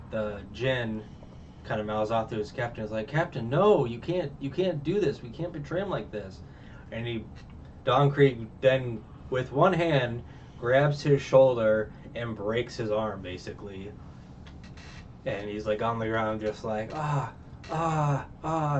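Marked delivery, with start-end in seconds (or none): 3.1-6.4 higher-pitched retold objection; mock protest. Jin mouthing off to his captain, mock protest. 16.9-18.8 higher, mock cries of pain; imitated pained groans. Man on the ground with a broken arm, imitated groans. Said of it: "He's just in a lot of pain".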